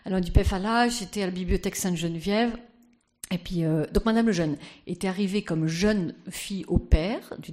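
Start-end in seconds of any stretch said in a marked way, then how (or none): 0.3-2.5 put-on Danish accent. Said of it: "je prends l'accent de Madame Lejeune".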